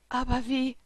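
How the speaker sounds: understated, bewildered question without a full whisper; confused whisper. A narrator's reading. Daughter in her mother's arms, mildly confused. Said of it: "flüsterte ich verwirrt".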